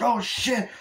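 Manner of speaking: imitating a shocked moviegoer; startled yelp. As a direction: yelp at the sudden violence. Blood in Tom Cruise's face.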